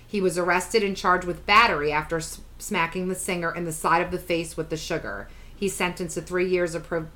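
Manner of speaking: slightly low, even read-aloud voice; news article read. Acted. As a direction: read the report out matter-of-factly. Reads article, skimming at the end.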